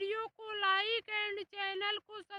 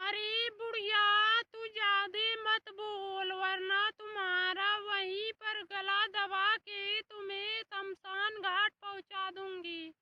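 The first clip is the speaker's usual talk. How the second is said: angry threat; 4 dB louder than usual. Acted. Daughter-in-law threatens mother-in-law.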